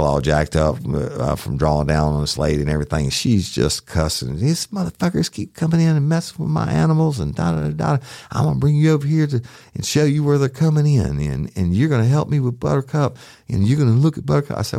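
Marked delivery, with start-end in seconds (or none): 4.4-14.6 high-pitched imitation of an angry, cursing woman; Miss Mary imitated. Deputy retelling the woman yelling back at him, high mock-angry voice. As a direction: squeak her up high, all attitude.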